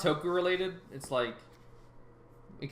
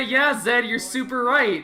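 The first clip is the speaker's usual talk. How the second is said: mock agreeing voice; 4 semitones higher, 6 dB louder, slower than usual. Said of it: "I will edit this so it'll all say".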